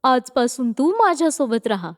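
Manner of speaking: lightly voiced motherly comfort; understanding. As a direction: console gently, with sympathy. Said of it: "समजून घेऊन ती बोलते".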